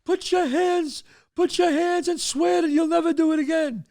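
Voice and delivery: high-pitched, insistent yell; mother yelling down. Retold or imitated. Mother yells down at her son to swear, high shrieking demand. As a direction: demand an oath from upstairs. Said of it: "She's yelling down".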